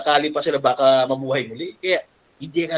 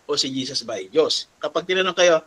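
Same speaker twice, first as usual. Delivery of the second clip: ordinary talk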